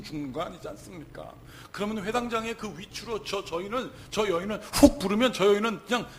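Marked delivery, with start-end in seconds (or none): 1.7-6.1 impassioned preaching. Real, not acted. Preacher arguing the synagogue ruler's power, impassioned. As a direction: preach with rising force.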